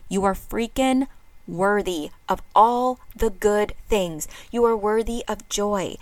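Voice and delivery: projected so the back row hears. Shown as a demonstration. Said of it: "For all the people there in the back".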